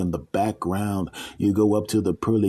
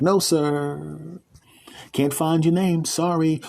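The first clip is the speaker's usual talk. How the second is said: high, polite but firm clerk voice; desk lady; 7 semitones higher, slower than usual. Acted. Gatekeeper lady refusing the man at the gate. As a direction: turn him away sweetly.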